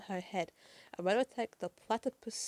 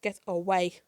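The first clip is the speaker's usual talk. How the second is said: a mock yell, a touch louder; half-acted frightened cry; retold scream; 6 dB louder than usual. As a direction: push her away with a scared shout.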